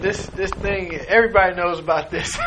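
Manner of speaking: words bubbling with a laugh; chuckling quote. Real, not acted. Preacher relishes Paul's words to the king, chuckling. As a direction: still amused, say it with a chuckle.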